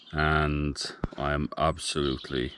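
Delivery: winded after climbing ladder; puffing between words; out of breath. Real, not acted. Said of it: "fucked from climbing up".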